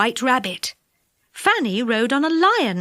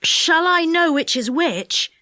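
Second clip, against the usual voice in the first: eager question; 5 semitones higher, slower than usual. Acted. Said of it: "he asked the driver".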